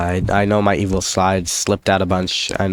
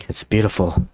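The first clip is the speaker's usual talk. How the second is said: awed over gold. Shown as a demonstration. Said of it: "Like I was talking about some pile of gold".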